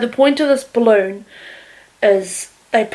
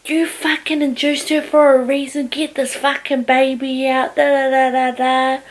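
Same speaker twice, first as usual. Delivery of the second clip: imitating an angry mum's rant; mildly heated, higher-pitched scolding; 3 semitones higher than usual. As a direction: tell someone off, trailing into blah-blah sing-song. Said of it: "My mum was so angry".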